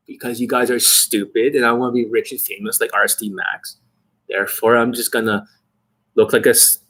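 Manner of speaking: sneering parody of a smooth coach; mock the hypnotic coach tone; lightly voiced mock guru rising to a squeak. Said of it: "Who the fuck talks like that?".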